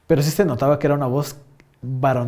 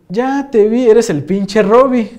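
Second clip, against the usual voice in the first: louder, higher, drawn out on Robbie; gotcha, nailing the prankster; loud and slow, savoring the catch; triumphant call-out; 6 semitones higher, 7 dB louder, slower than usual. Retold or imitated.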